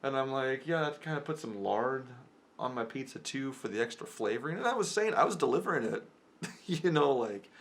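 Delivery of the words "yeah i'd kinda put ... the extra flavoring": higher-pitched playful delivery; joking. Retold or imitated. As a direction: deliver it as an obvious joke. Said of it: "any regular person would know I was joking".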